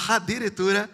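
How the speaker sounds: "addirittura" high with a rising tail; rehearsal pronunciation. Shown as a demonstration. To the choir as in rehearsal, "addirittura" high and rising. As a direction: lift "addirittura" up in pitch to the end. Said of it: "come diciamo nella nostra prova".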